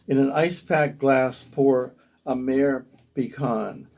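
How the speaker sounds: measured recital in short phrases; poem reading. Acted. Poet commends a Basque restaurant to listeners, measured poetry reading. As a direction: read it as verse, savouring each listed item.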